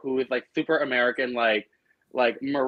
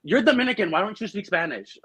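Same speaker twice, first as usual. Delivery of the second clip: sassy comeback; 6 semitones higher than usual. Retold or imitated. Retold snapback at the ex.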